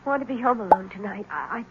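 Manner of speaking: barely holding it together, softly; hushed and nervous. Acted. Frightened wife pleading to stay at the station, softly.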